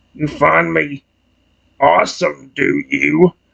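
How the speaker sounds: low, rough dragon rumble. Reading an interactive story, the dragon answers being called awesome: rumbling Ferragamo dragon voice. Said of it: "He rumbles".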